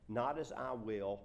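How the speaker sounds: loud, slow, even weight on "not as I will"; projected verse without singling out "I"; scripture reading. Acted. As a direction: read "not as I will" deliberately.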